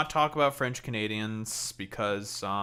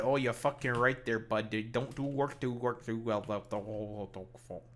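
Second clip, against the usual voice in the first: mock Canadian trailing into mumbled nonsense; extra Canadian accent; 4 dB quieter than usual. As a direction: let the Canadian bit fade away. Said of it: "being a bit extra Canadian".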